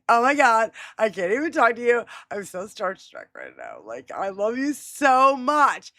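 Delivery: starstruck fangirl. Pretend. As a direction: gush like a starstruck fan, stretching the last words. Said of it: "imagine if she joined us ... I'd be like ... I'm so starstruck".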